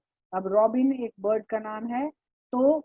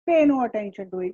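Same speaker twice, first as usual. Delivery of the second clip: roared; 4 dB louder, slower than usual. Acted. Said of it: "roared मतलब चिल्ला के बोले".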